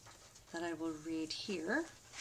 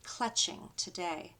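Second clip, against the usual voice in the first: rhythmic spoken-word poem, each "look at" line punched; a spoken-word poem, building with a steady beat; poem recital; 3 dB louder than usual. Acted. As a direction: chant it like a protest poem. Recites a call-and-response poem.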